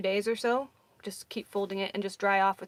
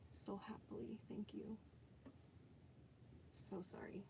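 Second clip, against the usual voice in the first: whispering; 21 dB quieter than usual. Real, not acted. Apologising softly to viewers.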